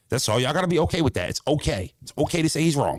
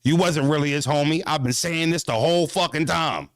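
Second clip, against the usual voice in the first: lightly voiced toxic fan, pitched higher; a hint of a smug accusing fan; mild mock fan gloating; 5 semitones higher than usual. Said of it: "toxic fan".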